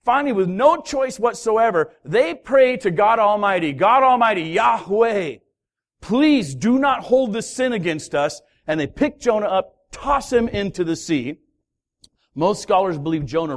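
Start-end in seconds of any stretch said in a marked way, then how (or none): 3.7-8.4 sailors crying out to God in fear; desperate prayer. Retold or imitated.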